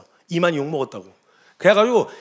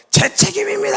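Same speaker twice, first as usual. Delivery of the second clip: 오열 흉내; 12 semitones higher than usual. Retold or imitated. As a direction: sob it out like the distraught pastor. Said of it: "오열을 하시면서". (목 놓아 오열하듯)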